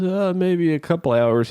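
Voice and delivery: high, slurred reply; Stetson Bennett, slurring. Retold or imitated. Hungover quarterback answering the host about sleep, slurred mock-drunk. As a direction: imitate someone still drunk from celebrating. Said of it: "He's slurring his speech".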